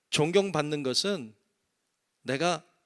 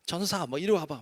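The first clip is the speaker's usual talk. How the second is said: casual deacon; 4 semitones higher than usual. Retold or imitated. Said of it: "막 이렇게".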